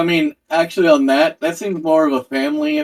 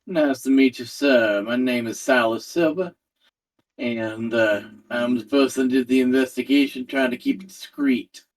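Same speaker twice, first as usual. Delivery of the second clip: lightly voiced investigator, measured and courteous; understated, polite in-character voice; polite investigator Silas; 4 dB quieter than usual. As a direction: introduce yourself with discreet professional calm. Plays Silas introducing himself.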